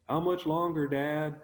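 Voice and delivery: put-on high, loud back-seat kid voice; impatient kid. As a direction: whine it like a child impatient on a car trip. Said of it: "we're all the kids in the back seat going".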